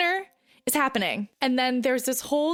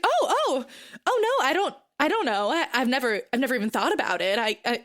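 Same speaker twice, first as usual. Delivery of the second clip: flustered wife; 2 semitones higher, faster than usual. Retold or imitated. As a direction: pitch it way up and trip over the words. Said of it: "she's like".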